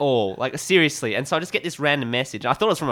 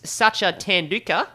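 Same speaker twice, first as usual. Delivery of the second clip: Richie Benaud impression; 5 semitones higher, slower than usual. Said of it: "This is my, uh, Richie Benaud".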